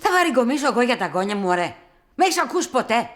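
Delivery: high-pitched, forceful retort; indignant protest. Acted. Older relative accused of grumbling about the grandchildren, indignant.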